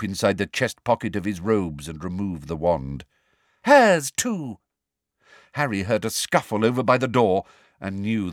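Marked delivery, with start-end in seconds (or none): 3.6-4.6 high, loud command; sharp order. A narrator's reading. Umbridge orders Hermione's wand taken, loud. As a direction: snap the command.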